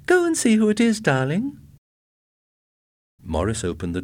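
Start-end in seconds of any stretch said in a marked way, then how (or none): 0.0-1.6 high, loud and eager; thrilled someone is calling; excited cry. A narrator's reading. Sally urging Ed excitedly.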